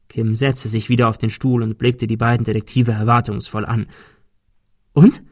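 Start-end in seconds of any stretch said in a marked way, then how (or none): 4.9-5.2 higher, louder eager prompt; can't wait for their answer. Acted. Kim presses the two detectives for an answer, higher and louder.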